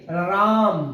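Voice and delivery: राम drawn out slowly with weight on रा; राम said slowly, रा stressed. Shown as a demonstration. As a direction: lean on the opening रा of राम. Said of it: "राम में रा पर बलाघात है".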